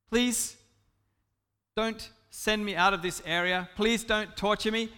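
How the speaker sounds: a touch of anxious begging, halting after the first word; fearful pleading. Acted. Fearful believer begging Jesus not to punish them, mildly pleading. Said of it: "You're in fear that you're not really saved".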